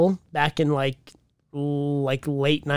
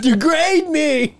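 high squealing put-on voice with a laugh; squealed mockery, much higher; mock fan squeal; 10 semitones higher, slower than usual. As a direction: ham up a crazed fan begging. Mocking a fan's wild request.

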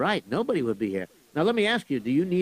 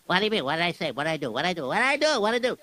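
flustered questioning; much faster than usual. Acted. Boy character puzzled by the teacher's praise, flustered. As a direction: fire off the questions in a mild fluster. Alarmed at being told of words.

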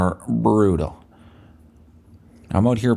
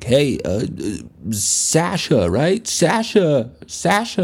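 mock bouncer; 7 semitones higher, slower than usual. Bouncer greets guy with wrong name.

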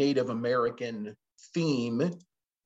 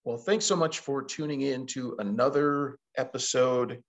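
scratchy, hoarse morning voice. Real, not acted. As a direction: talk through a scratchy throat. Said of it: "I'm a little bit hoarse today".

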